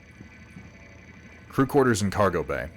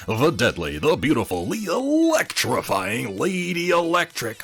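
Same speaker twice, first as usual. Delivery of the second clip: hyped-up announcer read; 2 semitones higher than usual. Acted. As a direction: boom it like a ring announcer. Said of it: "read this first one on my best Solaris announcer voice".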